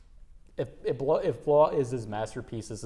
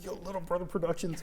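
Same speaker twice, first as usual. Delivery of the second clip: higher-pitched, mock-hyped fan voice; imitated hyped audience; 6 semitones higher than usual. Host imagines the audience hyped about the company, mock excitement. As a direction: play an excited fan without raising the volume. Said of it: "I know they're hyped".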